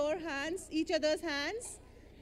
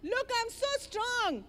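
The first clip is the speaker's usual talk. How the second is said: slow mouse brag; 4 semitones higher, slower than usual. Shown as a demonstration. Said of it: "Do it with me".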